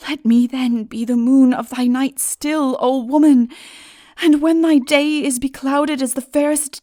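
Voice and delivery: high, loud yearning appeal; impassioned plea. A narrator's reading. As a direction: plead with all your heart.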